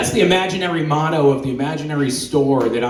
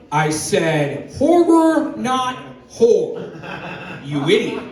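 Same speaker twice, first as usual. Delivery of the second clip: put-on girlfriend's voice; 8 semitones higher, much slower than usual. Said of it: "she says".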